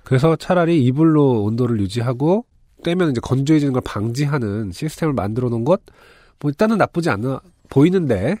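stuffy blocked-nose voice; talking through a blocked nose; nasal voice. Real, not acted. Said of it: "코맹맹이 소리로".

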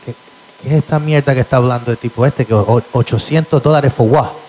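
fast, indignant Spanish rant; mock outrage; outraged mom. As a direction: mom fuming at the fee. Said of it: "My mom goes".

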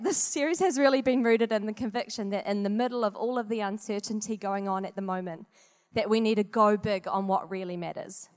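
winded, catching breath between phrases; breathless after a workout. Real, not acted. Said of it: "Sorry, I'm catching my breath".

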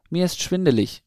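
put-on dazed young owl calling up from the ground; dizzy cry. A narrator's reading. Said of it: "rief der eine Bruder".

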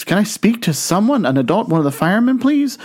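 a caller starting to panic; rising worry. Acted. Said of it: "Telemarketer's getting a bit worried".

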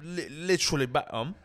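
British lad's stammered agreement; mock British accent. Lad backs up the Beckham line, mock British accent. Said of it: "it's an easy impression".

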